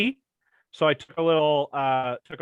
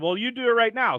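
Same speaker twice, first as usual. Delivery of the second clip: mock stern order; 8 semitones higher than usual. Rock ordering the Coach.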